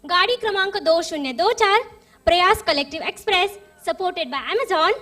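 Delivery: station announcer voice; like a train platform announcement; railway announcement. Pretend. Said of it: "तो train से चले सब".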